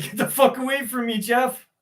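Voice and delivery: high, fast mock woman's voice pushing him off; mock hag rebuff. Joking about the hag rejecting his kiss, high and fast. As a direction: squeak it out fast like she's shoving you away. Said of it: "she'd be like".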